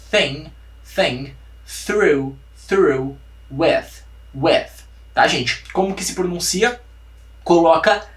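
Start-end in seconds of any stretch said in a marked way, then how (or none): 0.1-4.7 thing, through, with with tongue between teeth; soft TH demo. Shown as a demonstration. Teacher modeling the soft TH for students. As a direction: breathe the th through your teeth. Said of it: "a gente pronuncia como".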